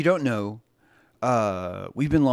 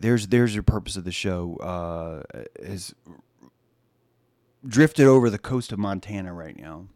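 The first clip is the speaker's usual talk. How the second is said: ordinary delivery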